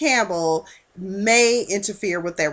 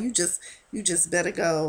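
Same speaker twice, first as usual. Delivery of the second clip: the same warning, dropped softer; softer repeat; 3 semitones lower, 6 dB quieter than usual. Retold or imitated. Repeating the warning to Ryan, quieter and resigned. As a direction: let the warning fall away quietly.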